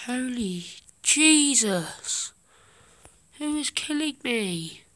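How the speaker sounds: loud startled outburst; shocked shout. Real, not acted. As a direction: yell in sudden alarm. Shot in game.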